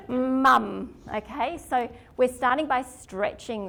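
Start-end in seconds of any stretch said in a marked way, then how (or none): 0.1-1.0 put-on child calling mum.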